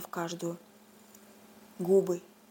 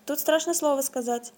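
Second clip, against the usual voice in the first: squeaky bird voice; 4 semitones higher than usual. Acted. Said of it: "пискнул птичий голос".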